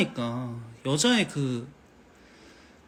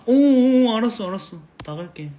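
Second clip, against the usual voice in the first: loud high startled oh, fading to meek; startled retreat; 7 semitones higher, 8 dB louder than usual. Pretend. Dad flustered as daughter throws him out, loud then meek. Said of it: "딱 이렇게".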